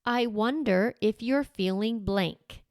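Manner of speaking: slow, wondering "I wonder if you're feeling blank"; as a question. Shown as a demonstration. Coach modelling how to name emotions, as a question. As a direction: float "blank" slowly as an open guess. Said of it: "say it like that as a question".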